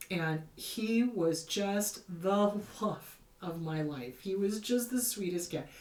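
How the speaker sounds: slow, softening, close to tears; real grief welling up, slowed down. Real, not acted. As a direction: let the voice fade on "my life". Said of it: "Oh, I'm gonna cry".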